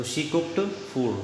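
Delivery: each word drawn out slowly and a touch soft; very slow dictation. Shown as a demonstration. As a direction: dictate the answer to students. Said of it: "उसने खाना पकाया". (बहुत धीमे, शब्द-शब्द अलग बोलना)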